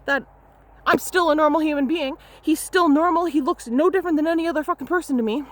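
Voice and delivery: high, heated and rushed, a retold telling-off; heated retold rant. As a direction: let the outrage spill out fast. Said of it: "I was like".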